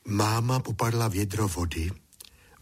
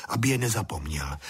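usual speaking voice

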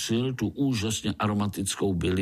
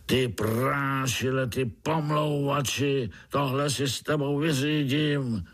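angry shout; 4 semitones higher than usual. Acted. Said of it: "A najednou se ozval křik".

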